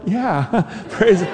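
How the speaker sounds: high, laughing reply. Retold or imitated. Lady laughing back at the preacher, high and amused. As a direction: echo the praise through a laugh.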